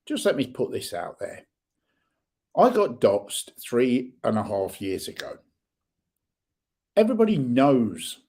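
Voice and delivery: heated, rising rant at online trolls; furious and defiant, calling them out; angry rant. Real, not acted. Vlogger ranting at anonymous trolls, angry. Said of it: "That's me rant over".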